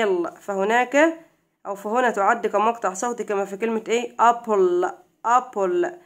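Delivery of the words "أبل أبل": أبل said louder, split into two beats; syllables stressed. Shown as a demonstration. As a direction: stress each half of أبل. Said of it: "يبقى هنا مقطع وهنا إيه".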